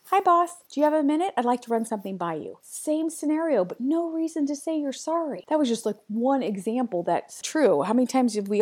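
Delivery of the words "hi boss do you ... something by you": bright, direct, higher and louder greeting; walk in sure of yourself; a breezy confident ask to the boss; confident employee. Retold or imitated. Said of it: "they show the same scenario, phrased differently".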